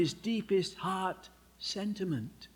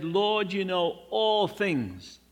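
exasperated; 2 semitones higher, 4 dB louder, slower than usual. Retold or imitated. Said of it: "He said".

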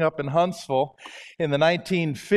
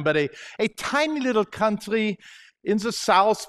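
Southern drawl. Shown as a demonstration. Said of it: "want me to speak like this".

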